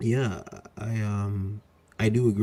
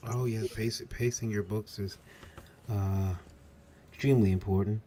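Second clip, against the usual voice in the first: put-on Edwin Boyette voice; 5 dB quieter than usual. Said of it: "I'm doing my Edwin Boyette voice".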